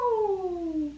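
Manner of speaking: cat meow. Pretend.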